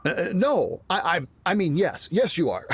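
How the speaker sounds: nervous stammer. Acted. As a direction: stammer it out, panicking. Guard flustered, stammering before guests.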